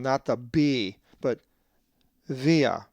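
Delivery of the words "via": "via" with a v sound, not b, stress on the i; Greek pronunciation. Shown as a demonstration. Teacher showing students the Greek word, v sound and stressed i. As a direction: model "via" with va, stress the iota. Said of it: "with the accent over the iota and the va sound".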